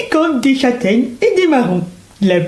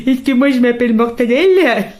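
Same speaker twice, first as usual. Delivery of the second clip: laughing. Real, not acted. Joking about the name.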